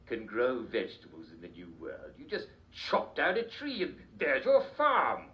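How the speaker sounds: lightly voiced eccentric old king, giddy; a hint of a batty royal, cheerful; Mad King George. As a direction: play a dotty king chatting on a talk show.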